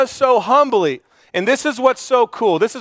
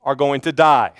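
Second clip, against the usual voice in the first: a calm, overly courteous death threat; lightly voiced polite menace; mock polite threat; 5 semitones lower than usual. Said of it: "David says this very politely".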